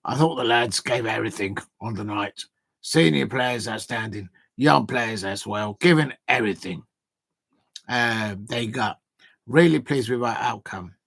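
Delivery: put-on butchering an Australian accent on purpose; attempted Australian accent. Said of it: "I can't do an Australian accent, but I'll do try my best".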